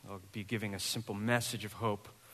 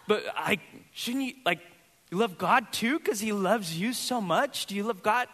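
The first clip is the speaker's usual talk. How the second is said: high, hammed-up coaxing; mock pleading; 8 semitones higher, 4 dB louder than usual. Pastor retelling how he coaxed his daughter, high mock pleading. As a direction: plead with a stubborn little kid.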